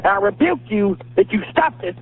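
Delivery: solemn exorcist command; preaching rebuke. Real, not acted. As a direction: rebuke the devil. Caller rebuking demon on air.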